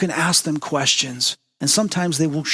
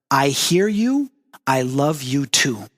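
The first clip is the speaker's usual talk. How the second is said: slow, gentle fatherly words; slow tender I love you too; tender message; slower than usual. Retold or imitated.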